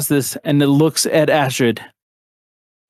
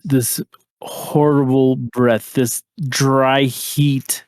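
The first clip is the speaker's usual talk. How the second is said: game master narration; slower than usual. Acted. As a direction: paint the dread slowly. GM scene narration.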